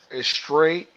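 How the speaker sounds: "straight" said with the S dropped; Atlanta drop-S. Retold or imitated. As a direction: clip the S off "straight", Atlanta style. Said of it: "don't pronounce S's".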